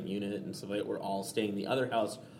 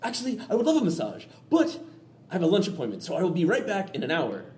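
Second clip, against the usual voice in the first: imitating mom; 6 semitones higher than usual. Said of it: "She's like".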